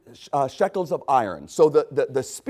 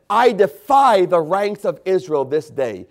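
Philistine's challenge; 4 dB louder than usual. Retold or imitated. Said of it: "the Philistine said".

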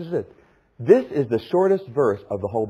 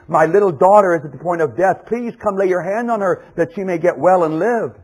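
a mildly urgent plea; earnest imploring; 4 semitones higher, 3 dB louder than usual. Acted. Father begging for his dying daughter, earnest imploring. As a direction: implore with a slightly raised pitch. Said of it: "he implored him earnestly".

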